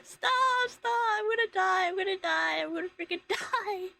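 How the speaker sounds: imitating a panicking chatter; mock screaming. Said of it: "that one chatter that acts if you wax".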